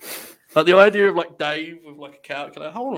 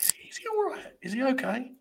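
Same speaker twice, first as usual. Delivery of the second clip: much higher, softer mock worried voice; mock concern; 9 semitones higher, 7 dB quieter than usual. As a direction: tease him with fake worry. Teasing a nervous friend.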